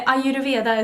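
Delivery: Ayurveda said the Swedish way, "ai-yu-de-vee-a"; Swedish pronunciation. Shown as a demonstration. Vlogger repeating how she would say it, Swedish pronunciation of Ayurveda. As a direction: pronounce Ayurveda as a Swede would. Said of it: "I would say it in Swedish".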